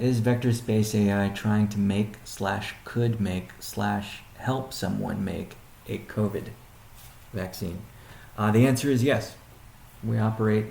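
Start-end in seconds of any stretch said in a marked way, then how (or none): 0.0-7.8 slow and deliberate, word by word; slower restatement. Real, not acted. Restating the question to the audience, slow and deliberate. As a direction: spell the question out slowly so it lands. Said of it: "Let me restate that".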